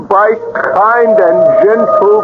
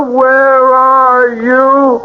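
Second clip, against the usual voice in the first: slow, pleading call from beyond; a lost son reaching for his mother, drawn out; spirit child calling; 4 semitones higher, much slower than usual. Acted. Spirit of Kenneth calls mother.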